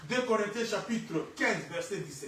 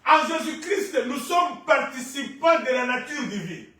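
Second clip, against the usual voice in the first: raised, ringing declaration to the congregation; forceful preaching; 6 semitones higher, 6 dB louder than usual. Real, not acted. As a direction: proclaim it loudly, stretching key words.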